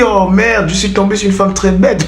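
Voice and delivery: high-pitched comic lament, breaking into laughter; mock dismay. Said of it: "Mais toi, tu es là, tu dis".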